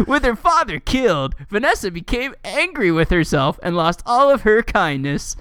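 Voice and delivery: swooping, lilting storybook read; mock-dramatic article reading. Reading fan fiction backstory to co-host, mock-dramatic. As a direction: read it like an epic backstory, tongue in cheek.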